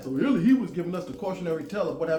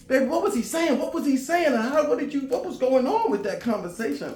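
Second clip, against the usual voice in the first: imitating family asking; 9 semitones higher, 6 dB louder than usual. Family pestering him for translation.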